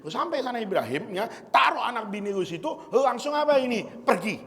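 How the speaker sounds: put-on lightly done Betawi Jakarta accent, casual and blunt. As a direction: voice the angel Jibril as a street-wise Betawi speaker giving orders. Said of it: "kalau Jibril Betawi ngomongnya nih".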